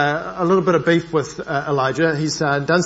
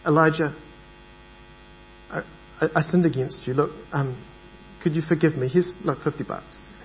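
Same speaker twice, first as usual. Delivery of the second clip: a hint of a sheepish bribe, fading soft; apologize, then slip in a sly offer; mock bribing apology; 5 dB quieter than usual. Speaker mock-apologizing to Elijah with a bribe, softly. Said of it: "is this".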